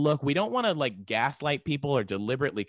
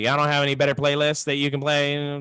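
louder, grumbling complaint about the music; complaining customer; 3 semitones higher, 6 dB louder than usual. Retold or imitated. Woman at the smoke shop grumbling about the playlist. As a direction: gripe at the counter like an annoyed customer. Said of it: "she was like".

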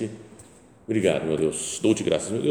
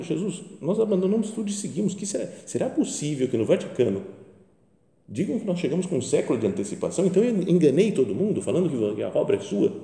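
retold outcry; 6 semitones higher than usual. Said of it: "gritava com o sacrário".

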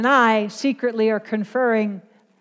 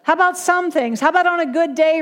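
higher-pitched, mock-disbelieving questions; incredulous protest; 5 semitones higher than usual. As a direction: haggle in mild disbelief. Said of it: "with an exclamation point".

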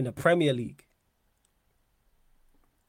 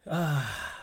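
drawn-out exhaled "ah"; weary, disbelieving sigh; long sigh. Real, not acted. Exasperated at the wild claim.

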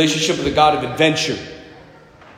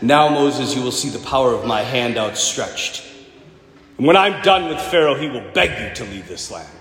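deep, lower divine voice, grand; booming God; 8 semitones lower than usual. Retold or imitated. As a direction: speak as God, deep and solemn. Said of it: "he has this great line".

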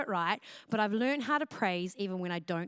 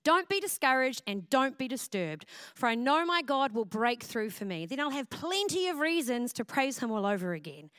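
scripture reading. Shown as a demonstration. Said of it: "Psalms forty-two, verse eleven says".

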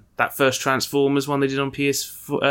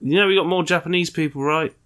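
put-on Japanese accent; 6 semitones higher than usual. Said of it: "the Japanese are constantly like".

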